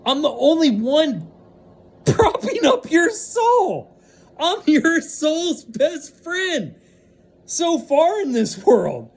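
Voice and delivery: fired-up rant. Real, not acted. Ranting passion builds to a shout.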